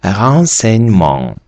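"renseignement" slowly, syllable by syllable; French reading. Shown as a demonstration. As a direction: sound out "renseignement" in French, final t silent. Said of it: "В результаті".

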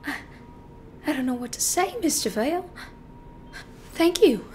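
soft, halting, near-whispered thanks; hushed and humbly grateful, with long hesitant pauses; meek gratitude. Acted. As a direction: speak timidly, barely above a whisper. Grateful client thanks his lawyer.

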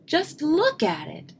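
high-pitched upset plea; distressed cry. A narrator's reading. Brother pointing at the ruined bike, distressed. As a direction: plead it as an upset cub. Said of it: "cried Brother".

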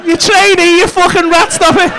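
high, comic indignation; hammed-up disbelieving scolding; mock accusation. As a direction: pretend to catch him out in a lie. Mock accusing a fake accountant.

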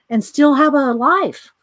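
laughing through the words; a real laugh breaking into the words. Real, not acted. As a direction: chuckle out the end of the line. Laughing at own joke.

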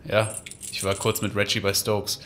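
ordinary delivery

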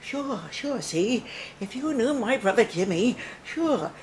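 tough-guy Cagney patter, sure sure; Cagney's sister. Retold or imitated. Playing Cagney's sister with gangster swagger. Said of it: "And then I thought, "James Cagney's sister".

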